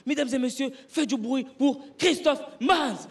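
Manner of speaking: high, slow emcee call; a mock emcee announcing the act; announcer intro. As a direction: stretch out the name. Announcer introducing him third time.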